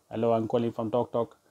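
lightly mimicked call-centre spiel; cold caller. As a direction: put on a cold caller reciting a script. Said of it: "it's the usual spiel".

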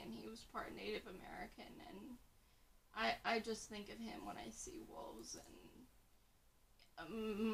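soft, choked-up and teary; after crying. Real, not acted. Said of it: "I'm getting all, like, teary-eyed".

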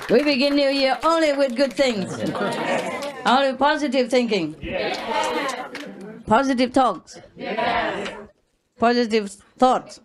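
chuckling upbeat encouragement; laughing through it. Real, not acted. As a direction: laugh while cheering them on. Cheerful New Year pep talk.

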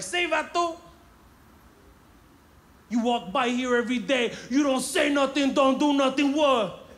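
Latino gang member. Retold or imitated. Gang guy confronting the kid walking by, loud Chicano accent. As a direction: get in his face, vato. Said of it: "He was like".

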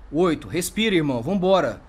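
loud, driving encouragement on the count; urgent shout. Real, not acted. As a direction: push him to breathe, raising your voice. Urging a shot man to breathe.

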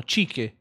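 "Ciche" with hard k ending; unsure pronunciation guess. Real, not acted. Streamer guessing a username, "Ciche" with a k. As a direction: try "Ciche", second c as k. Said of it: "non so come si pronunci".

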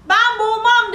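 high, loud storybook river; defiant refusal. Acted. River refuses to drown the boy, loudly defiant.

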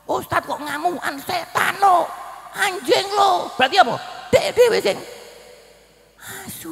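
loud, high and slow rebuke; preaching shout. Real, not acted. Preacher shouting at the crowd against clerics who curse. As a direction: thunder it at the congregation.

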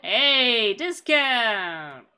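loud call of discount!; hammed-up yell for a discount; mock shout. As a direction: bellow discount! at the shopkeeper. Calling out to shopkeeper.

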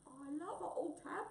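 a touch of choked-up fondness; gulping wombat. Acted. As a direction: confess it with a lump in the throat. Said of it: "gulped Wombat".

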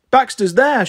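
put-on high, eager toddler voice; small child pointing out, bright; excited little girl. A narrator's reading. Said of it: "she said".

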